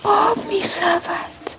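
high, slow, weepy wonder; tearful rapture. Acted. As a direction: beg the sun to keep talking, melting. Melting ice, tearful and enchanted.

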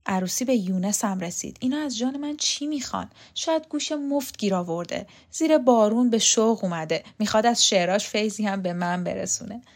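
mild under-the-breath grumble; a touch of muttered complaint; grumbling to oneself. Acted. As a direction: grumble privately, lightly acted. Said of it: "زیر لب قرید".

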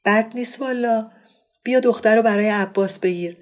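hammed-up joking offer; clowning. Monavar clowning to her friend about a bride. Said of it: "با لودگی گفت".

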